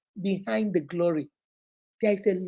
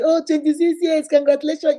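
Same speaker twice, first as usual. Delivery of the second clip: higher, louder cheery well-wisher; mock congratulating; 6 semitones higher, 5 dB louder than usual. Outsiders congratulating the couple, a bright mock cheer. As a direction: gush like an outsider at the celebration. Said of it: "people see the glory".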